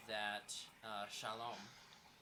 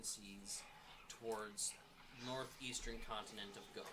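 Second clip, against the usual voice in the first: game master narration. A narrator's reading. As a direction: set the scene for the players. Game master recaps the voyage.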